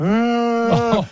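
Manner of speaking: a short imitated whimper of a crying girl; imitating a kid's cry. Mum imitating her daughter starting to cry, high mock wail. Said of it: "So she starts crying, like".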